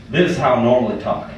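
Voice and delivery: relaxed Southern twang, dropping the coached voice; Southern US accent. Acted. Comic reveals his supposed real voice, Southern US accent. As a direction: switch into a broad Southern accent. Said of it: "I'm from the South".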